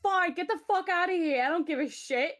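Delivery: high, loud, acted tearful yell; crying outburst. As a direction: lash out as if crying. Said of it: "I think I just start crying".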